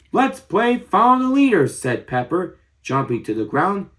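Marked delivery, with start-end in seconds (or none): 0.1-1.7 put-on high, louder eager child's call; excited child. A narrator's reading. Pepper starts a game with friends, excited high call. Excited party host in story.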